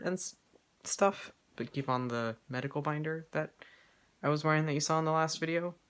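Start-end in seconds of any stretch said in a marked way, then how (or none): 4.2-5.8 talking with hiccups; hiccupping between words. Real, not acted. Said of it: "getting the hiccups all of a sudden".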